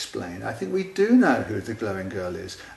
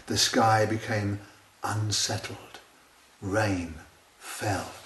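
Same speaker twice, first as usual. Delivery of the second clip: poem reading; 2 semitones lower, slower than usual. Acted. Reading the child's scary poem aloud.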